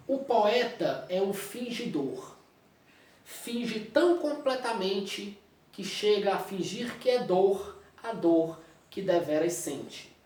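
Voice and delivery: slow, measured reading of a poem; teacher reading poetry to the class; poem recital. Acted. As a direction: recite the verse deliberately, savoring each line. Reads Pessoa poem aloud.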